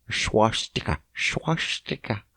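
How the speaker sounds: swastika as SHWAH-stih-kuh, falling; short middle vowel. Shown as a demonstration. Trying out the word swastika, short middle vowel, softly settling. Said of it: "Is it swastika or swastika?".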